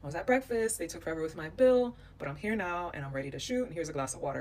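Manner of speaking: laid-back retold reassurance; calm and relaxed. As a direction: imitate someone unruffled, reassuring as you explain. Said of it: "like, calm and relaxed".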